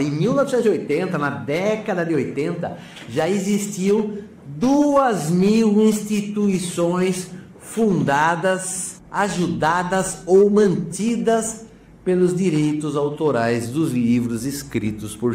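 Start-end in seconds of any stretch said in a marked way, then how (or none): 3.1-11.6 each word drawn out slowly and pitched up; slow down to let the number sink in; slow emphatic stress. Acted. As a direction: dwell on every word to impress the viewer. Stressing an impressive fact.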